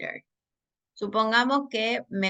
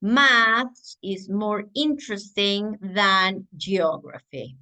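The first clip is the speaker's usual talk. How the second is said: slow model sentence; 3 dB louder, slower than usual. Shown as a demonstration. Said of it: "voy a decir".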